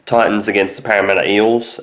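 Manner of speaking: talking around a lolly; mouth full. Real, not acted. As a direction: speak with a sweet in mouth. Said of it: "I've got a eucalyptus lolly in my mouth".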